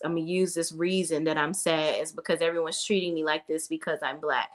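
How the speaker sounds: low, dreary woe-is-me imitation; mock someone feeling sorry for herself, voice dropped; mock self-pity. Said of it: "she's crying about nobody noticing her".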